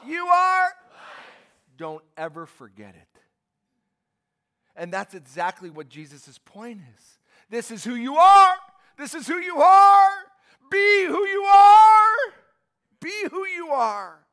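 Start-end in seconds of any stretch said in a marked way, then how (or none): 0.1-0.7 proud, high shout; a loud, proud call to the congregation; louder with pride. Shown as a demonstration. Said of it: "A little louder with pride". 7.5-12.3 high, loud, near-crying proclamation; a rising shout that breaks with feeling; impassioned preaching shout. Acted. Preaching at full force.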